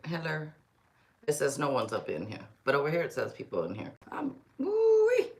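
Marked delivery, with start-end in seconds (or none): 4.1-5.3 excited whoop. Real, not acted.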